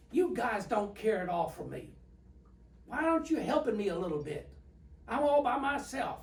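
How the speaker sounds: a hint of a sulking king, climbing to a high whine; mildly voiced King Saul whining that he's all alone; whiny King Saul. Saul complaining nobody helps him.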